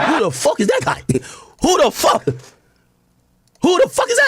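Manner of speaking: high, incredulous mock callout; building from baffled echo to drawn-out high mockery; mimicking the clip. Echoing the fighter clip just played.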